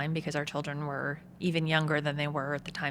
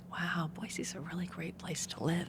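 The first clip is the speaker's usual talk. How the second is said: imitating the kids; 8 dB quieter than usual. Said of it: "And they're like".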